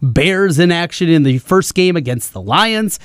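upbeat sports-radio host voice; radio promo read. Real, not acted. Host telling listeners about tonight's football coverage, in radio promo voice. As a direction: announce the show with measured punch.

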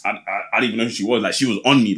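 a hint of a smug American husband; mock American accent. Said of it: "how they talk with American accent".

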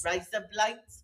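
copying RISE UP LIGHTS as Australian "razor blades"; trick Australian accent. Pretend. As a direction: try out a tentative mock Australian accent. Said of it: "with an Australian accent".

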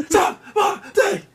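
high, slow, laughing mock rapper yell. Repeating the ad-lib to friends, slow and laughing. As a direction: stretch it out while cracking up.

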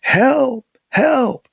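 high-pitched distress calls; yelling for help. A narrator's reading. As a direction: call out urgently to anyone who might hear. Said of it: "he began to yell".

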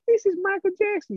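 very high-pitched bad prank-call impression; a famous singer. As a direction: put on a terrible high falsetto celebrity voice. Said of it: "he's doing different voices".

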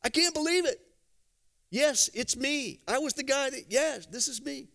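high, excited whoops of a man who can walk again; overjoyed healed man. Retold or imitated. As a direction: burst out like you're dancing a jig. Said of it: "dancing a jig and going home and going".

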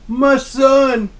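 high, loud father's wail; mock anguished cry. A retold Denethor crying to Faramir, high and loud. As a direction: cry out for the son as he flips out. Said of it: "And he's like".

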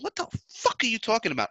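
high-pitched, retold incredulous challenge; indignant disbelief. Coffee fan retelling his reply to Colombians, incredulous. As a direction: replay your baffled protest with the pitch pushed up.

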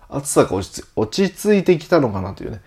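sleepy, stumbling morning voice; just woke up. Real, not acted. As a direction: trip over words half-awake. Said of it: "寝起きなんでね、勘弁くださいね". (寝起きの声)

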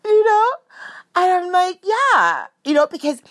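high giggly voice, still laughing. Real, not acted. Retelling her answer to dad, giggling. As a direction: speak through the giggles.

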